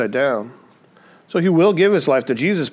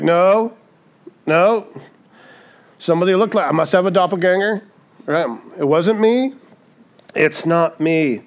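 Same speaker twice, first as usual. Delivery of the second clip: a hint of flustered denial; 3 semitones higher than usual. Peter's third denial retold.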